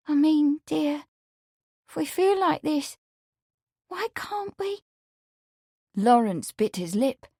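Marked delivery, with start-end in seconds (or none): 0.1-4.8 put-on high, pleading young woman; pleading maid. A narrator's reading. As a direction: coax him tenderly. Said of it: "she began tremblingly".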